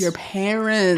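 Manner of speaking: slow unvoiced whisper. Real, not acted. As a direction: whisper it back slowly. Echoing the whisper.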